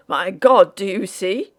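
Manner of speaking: a sudden loud burst on My God, dropping back on do you see; blurting out in shock at the skeleton; startled exclamation. Acted. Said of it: "he ejaculated".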